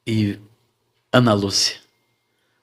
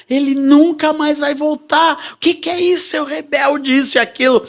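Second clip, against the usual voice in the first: high, scolding mother voice; mother scolding her rebel son; angry mother; 11 semitones higher than usual. Retold or imitated. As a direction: voice his furious mother scolding.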